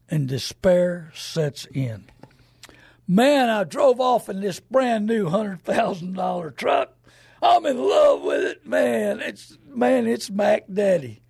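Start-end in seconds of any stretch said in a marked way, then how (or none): 3.1-11.2 excited truck owner. Retold or imitated. Proud new truck owner bragging.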